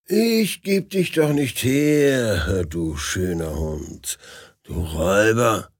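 slow, tender words to the dog; a touch of tears in a loving voice; tender, tearful. Acted. Dubow, tears in his eyes, holds Milka, tender.

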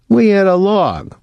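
high, alarmed shout; alarmed call. Acted. Dwyer pointing at the log, alarmed. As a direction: call the damage out urgently.

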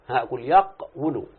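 "أقول يقول" said slowly, each syllable laid out; slow demo. Shown as a demonstration. Teacher walking a student through the verb, slow and deliberate. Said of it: "شوف ايه؟".

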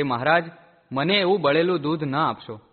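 a moderate shout of protest to the master; calling out. Acted. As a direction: call out loudly, pleading not to be given the burnt milk. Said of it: "Jodho બૂમો પાડવા લાગ્યો".

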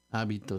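hábito with stress on the middle BI; unaccented hábito. Shown as a demonstration. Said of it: "sin acento".

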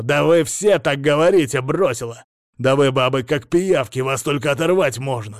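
scornful rant. A narrator's reading. Patient ranting at therapist.

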